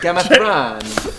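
slow, stretched "Game of Thrones" as Gammy Thrange; garbled title. Pretend. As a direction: mangle "Game of Thrones" into a drawn-out gam-uh-thrahn. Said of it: "Gammy Thrange".

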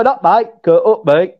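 Yorkshire "Up, mate"; Yorkshire accent. Shown as a demonstration. Co-host teaches how they greet, Yorkshire accent. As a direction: model UP with a northern English vowel. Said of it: "They, they go".

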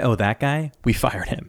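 hushed whisper, "Oh" then dismissive; whispered quip. Retold or imitated. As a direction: whisper it like gossip. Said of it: "And they say".

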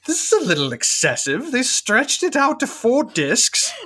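hammy British accent impression; bad British accent. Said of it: "your British accent's real bad".

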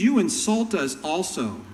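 mildly indignant complaint; a hurt, huffy objection; offended lawyer. Retold or imitated. Lawyer complaining to Jesus, mildly indignant. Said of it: "one of the lawyers that was standing by heard this".

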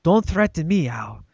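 badly faked English accent; attempted English accent, mock threat. Quoting the actress threatening Al, in a bad English accent. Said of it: "sounds Chinese. I can't do an English accent".

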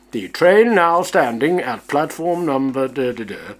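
lightly posh recorded announcer; posh station announcement. Retold or imitated. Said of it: "recorded in a rather posh voice".

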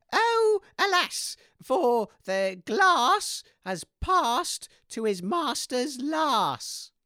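drawn-out, slow villain lines; slow dramatic recital. Acted. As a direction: ham it up slowly. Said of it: "say your lines".

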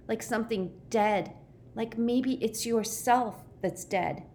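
high, distressed recollection; dread. A narrator's reading. Shuddering boy recalls his dreaded ordeal.

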